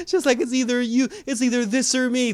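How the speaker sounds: real laughter in the voice; laughing while quoting. Real, not acted. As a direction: giggle out the ultimatum. Laughing through retold ultimatum.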